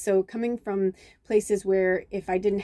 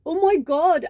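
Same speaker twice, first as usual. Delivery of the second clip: high gasp, then a higher, louder oh my God; retold amazed gasp; 11 semitones higher, 5 dB louder, much slower than usual. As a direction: awestruck at the mountains. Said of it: "he turned around and he went".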